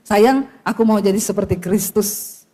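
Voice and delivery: low-pitched modelled endearment; husband to wife. Shown as a demonstration. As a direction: demonstrate a husband's low, tender promise. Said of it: "Coba bilang sama istrimu". (mencontohkan suami bicara mesra, nada rendah)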